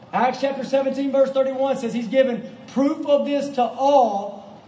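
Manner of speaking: emphatic, driving sermon delivery; impassioned preaching. Real, not acted. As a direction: proclaim it to the congregation with conviction. Preaches proofs with force.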